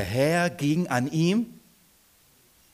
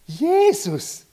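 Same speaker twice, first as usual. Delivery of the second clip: laughing; 11 semitones higher, 4 dB louder than usual. Real, not acted. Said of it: "laughing at the scene".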